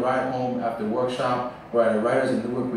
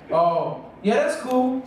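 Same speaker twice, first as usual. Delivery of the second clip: high-pitched, put-on casual agreement; mock casual reply; 10 semitones higher, slower than usual. Poet quoting his own lame response to the audience, high mock nonchalance. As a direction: play it off in a much higher voice.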